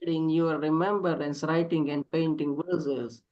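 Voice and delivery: lyrical, longing poem reading; yearning poem recitation. Acted. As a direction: recite it like a lament to a lost love. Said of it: "can we call upon you to read a poem".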